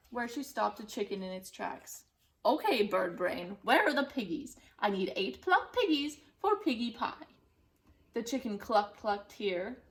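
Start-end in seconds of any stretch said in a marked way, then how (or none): 2.4-7.3 bossy witch. Acted. Witch demands of chicken.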